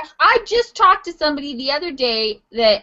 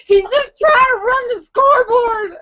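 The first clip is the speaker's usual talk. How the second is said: crying laugh; 9 semitones higher, 4 dB louder than usual. Real, not acted. Pitying scoreboard operator.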